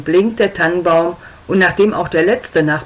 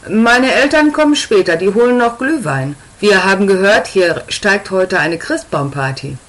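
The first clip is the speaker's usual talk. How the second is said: put-on higher, cheeky punk teenager; teen girl voice; 3 semitones higher than usual.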